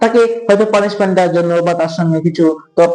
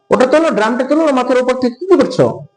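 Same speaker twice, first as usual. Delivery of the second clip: mock shout; 5 semitones higher, faster than usual. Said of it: "আমি চিৎকার করে বললাম".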